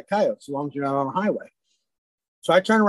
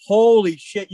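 loud, higher burst of acted amazement; amazed exclamation; 4 semitones higher, 8 dB louder, slower than usual. Hunter spots a rare albino coyote, amazed. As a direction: exclaim it loudly, stretching the first word.

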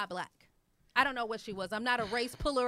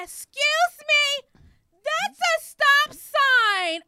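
high, loud, slow prissy mock voice; mocking the lady; 13 semitones higher, 9 dB louder, much slower than usual. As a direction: stretch it out like a snooty scold. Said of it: "and says".

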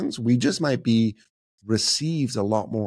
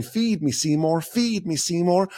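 higher, slow, demanding plant voice; hungry plant monster; 6 semitones higher, slower than usual. Retold or imitated. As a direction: growl it out like the giant plant begging for food. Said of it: "And it kept on saying".

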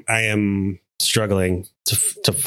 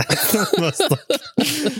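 laughing; 11 semitones higher, much slower than usual. Real, not acted. Laughing disbelief.

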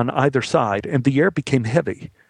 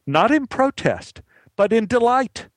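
excited; 11 semitones higher than usual. A narrator's reading. Crowd erupting in delight.

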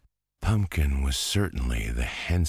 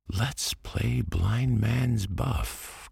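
put-on high, slow eager boy's call; 10 semitones higher, slower than usual. A narrator's reading. Antoine proposes a game to all, high slow call. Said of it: "called Antoine".

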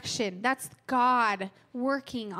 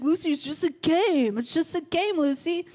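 lightly voiced, higher soothing family member; a mild, higher mock of a calm shrug; imitating Anders; 5 semitones higher, 5 dB louder than usual. Family telling sore loser Lucy it's just a game, mildly higher mock calm. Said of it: "That's how he sounds".

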